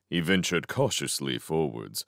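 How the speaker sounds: ordinary delivery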